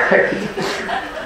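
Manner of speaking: breathy little laugh; a short, fond chuckle under the breath; quiet amused laugh; soft laugh. Real, not acted. Laughs at son's scruffy look.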